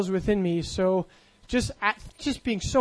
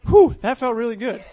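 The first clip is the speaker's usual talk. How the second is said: louder, laughing sigh of relief; 3 semitones higher, 8 dB louder than usual. Retold or imitated. Retelling his relief after confessing to Jesus, laughing. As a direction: let it out with a laugh. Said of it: "and I'm just like".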